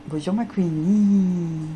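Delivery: drawn-out slow hello to the dog; slow sweet greeting. Real, not acted. Owner greeting her dog Queenie, slow and sweet. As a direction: stretch it out sweetly.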